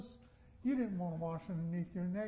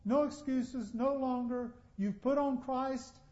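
Paul to the Galatians. Retold or imitated. Paul telling the Galatians no excuses, lightly voiced. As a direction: scold the people firmly but kindly. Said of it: "he is saying that to the Galatians".

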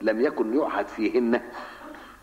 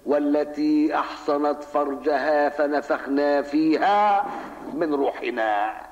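slow recitation; much slower than usual. Shown as a demonstration. Recites verse slowly to examine it.

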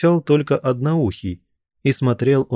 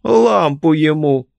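high, loud, slow mock cry; old man's scornful shout; 6 semitones higher, 5 dB louder, slower than usual. A narrator's reading. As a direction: jeer at him loudly. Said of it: "крикнул старик".

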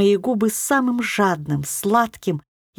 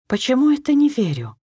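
flare-up; 5 semitones higher than usual. A narrator's reading. Героиня вспылила.

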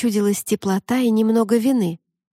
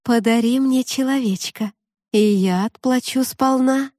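sweet mermaid voice; 5 semitones higher than usual. Acted. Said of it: "У неё был очень красивый голос".

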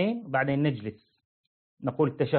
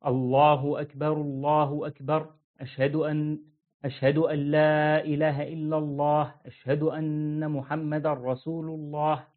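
brisk iqama; slower than usual. Shown as a demonstration. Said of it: "تسرع، يعني تقول".

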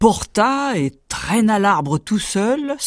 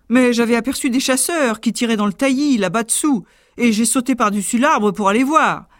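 boastful tailor; 6 semitones higher than usual. Acted. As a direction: brag quickly. Tailor brags.

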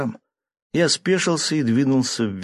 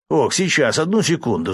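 fussing to open up; flustered; 6 semitones higher than usual. A narrator's reading. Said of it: "засуетился Пинг".

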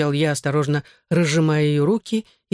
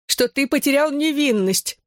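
hissed; 10 semitones higher than usual. Acted. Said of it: "прошипела мама".

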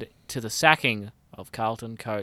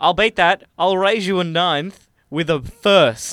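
mock boast; 5 semitones higher, 7 dB louder, slower than usual. Mock poker raise boast.

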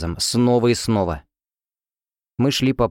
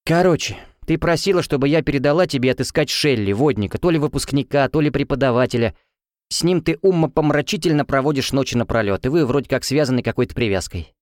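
a lightly raised, mocking roommate voice; sassy roommate; 4 semitones higher than usual. Helena relaying the night talk, lightly mocking. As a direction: rattle it off like a teasing roommate.

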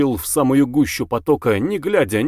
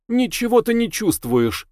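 cold accusation; 10 semitones higher than usual. Acted. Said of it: "сказала ему его собственное лицо".

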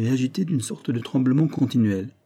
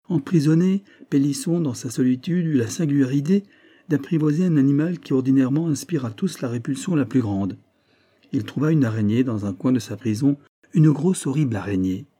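raised, deliberately emphatic telling; pressing each word; 4 semitones higher than usual. A narrator's reading. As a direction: lean on the words to unsettle the listener. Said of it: "Maurice appuyait sur les mots".

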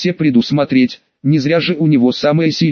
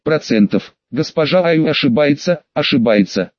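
playful mechanical robot voice. Acted. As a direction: read it like a joking robot. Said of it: "дурачись, голосом робота".

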